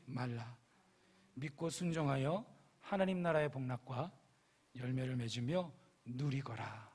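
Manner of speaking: soft, measured, tender reassurance; calm, unhurried fatherly encouragement; loving, compassionate rebuke. Acted. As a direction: counsel gently like one who loves the listener. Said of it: "이러한 분위기 속에서 책망하십니다".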